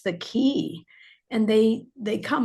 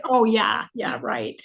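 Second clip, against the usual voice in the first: laughing disbelief; 2 semitones higher than usual. Retold or imitated. Author retelling her reply to a book prediction, laughing it off. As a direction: brush it off as unlikely. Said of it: "And I laughed".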